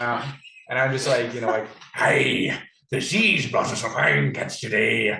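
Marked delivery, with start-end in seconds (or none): 1.9-5.2 put-on old-timey sea fisherman voice. Pretending to be an old-timey fisherman for a joke: put-on old-timey fisherman voice. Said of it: "pretend I'm, like, an old-timey fisherman".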